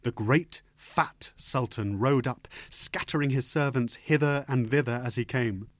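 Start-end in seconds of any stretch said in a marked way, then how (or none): none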